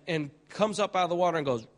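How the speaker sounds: ordinary talk, nothing marked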